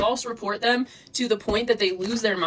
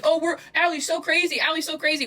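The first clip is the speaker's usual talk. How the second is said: mocking imitation; 6 semitones higher than usual. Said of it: "you guys act like".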